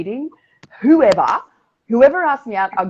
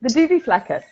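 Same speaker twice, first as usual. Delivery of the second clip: laughing through the words, much higher; 10 semitones higher, 7 dB louder than usual. Real, not acted. Repeating a made-up word to a friend, laughing. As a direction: squeal it out mid-laugh.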